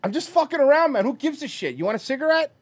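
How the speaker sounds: breezy backpedal. Pretend. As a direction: laugh it off as if it was a joke. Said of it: "And you go".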